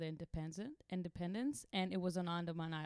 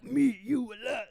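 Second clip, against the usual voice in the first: broken English local; 4 semitones higher, 8 dB louder than usual. Retold or imitated. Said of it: "sign language and mimes".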